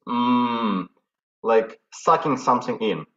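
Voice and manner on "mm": inward hum. Shown as a demonstration. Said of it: "like this".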